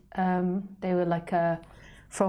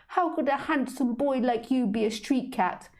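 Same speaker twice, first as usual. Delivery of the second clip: put-on higher, doting baby talk; high cooing lady voice; 6 semitones higher than usual. Humans telling the cat he is handsome, cooing. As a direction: flatter the cat sweetly. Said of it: "these humans always loved to tell me".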